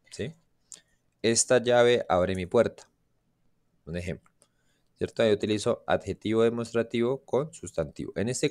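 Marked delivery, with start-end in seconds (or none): 1.2-2.9 Esta llave abre mi puerta, said slowly; slow example sentence. Shown as a demonstration. Teacher modelling an example sentence, slow and careful. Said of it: "Entonces yo digo, por ejemplo".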